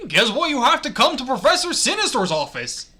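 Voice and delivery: high, loud cartoon mouse; Mickey Mouse. Character summons the narrator to an office, cartoon mouse voice. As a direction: deliver news as a peppy cartoon mascot. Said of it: "read that in a Mickey Mouse voice".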